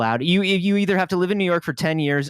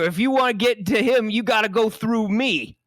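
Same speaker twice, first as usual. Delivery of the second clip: hammed-up tough line; 6 semitones higher than usual. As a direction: lean in like a movie tough. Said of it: "reenact this powerful moment".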